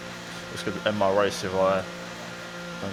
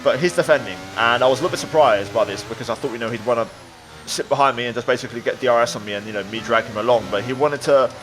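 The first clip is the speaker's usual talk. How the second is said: motorsport commentator. A narrator's reading. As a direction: lively race commentary voiceover. Race narration over gameplay.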